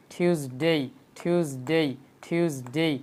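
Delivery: টিউসডে with aspirated T, "thyuz-dey"; correct Tuesday. Shown as a demonstration. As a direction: puff the first T of টিউসডে, lengthen "dey". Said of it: "আমি আবার repeat করে দেখেন". (টিউসডে শুদ্ধ উচ্চারণে, ঠ দিয়ে)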